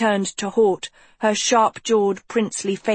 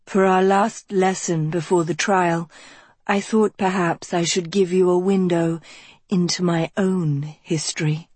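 resounding Dean voice. Acted. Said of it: "her voice resounding through Good Hall".

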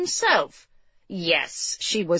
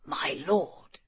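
hushed, lowered voice; discreet whisper; 4 semitones lower, 8 dB quieter than usual. A narrator's reading. Servant slips a word to his master, discreet whisper. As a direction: murmur it softly for one ear only. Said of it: "he whispered in G's ear".

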